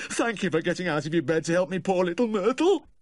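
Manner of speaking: high, tearful gratitude; brokenly crying. A narrator's reading. Weeping owner thanking the vet at the door, brokenly. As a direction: thank in a loud, high wail. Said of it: "he cried brokenly".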